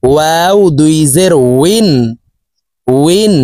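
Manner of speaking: slow ওইন with a w glide from rounded lips; rounded-lip waw. Shown as a demonstration. Teacher showing viewers the letter waw, rounded-lip ওইন. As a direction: round both lips, leaving a gap, for ওইন. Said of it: "ঠোঁট গোল করে দুই ঠোঁটের মাঝে ফাঁকা".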